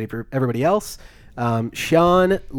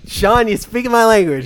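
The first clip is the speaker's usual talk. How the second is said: excited agreement; 8 semitones higher, 7 dB louder than usual. Retold or imitated. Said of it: "I'm like".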